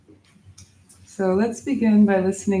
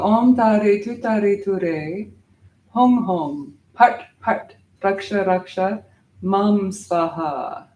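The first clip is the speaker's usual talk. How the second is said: measured, sustained mantra with bursts on part part; mantra recitation; slower than usual. Shown as a demonstration. Teacher models the whole mantra for students, deliberate recitation. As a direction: recite each phrase deliberately, drawing out the endings. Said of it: "So say it with me".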